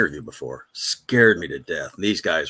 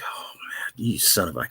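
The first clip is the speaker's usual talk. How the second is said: hushed, exasperated curse under the breath; whispered curse; 4 dB quieter than usual. Retold or imitated. Engineer finding coffee spilled on the console, whispered curse. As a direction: whisper it, biting back the swear.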